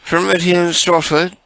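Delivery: high, sugary put-on caller voice; sweet fake-friendly caller; prank caller voice.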